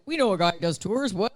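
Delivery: a hammed-up French accent, same pitch; mock French accent. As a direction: playfully fake a French accent. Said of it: "That was my French".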